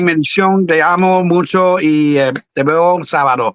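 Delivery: Puerto Rican Spanish accent. Real, not acted. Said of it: "you sounded really Puerto Rican there".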